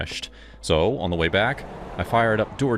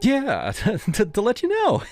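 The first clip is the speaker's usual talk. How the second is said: higher, sleazy grinning voice; creepy delivery guy. Acted. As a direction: play him smug and off-kilter.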